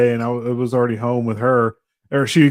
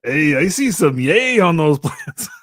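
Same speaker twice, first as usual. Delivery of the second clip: put-on voice; 2 semitones higher, slower than usual. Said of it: "I can't do that voice for long".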